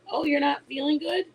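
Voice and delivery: a hint of a chirpy clerk asking, rising at the end; mock cashier small talk. Mother imitating her daughter's nervous small talk with the robber. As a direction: play the polite new cashier making small talk. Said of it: "her conversation she made with them was".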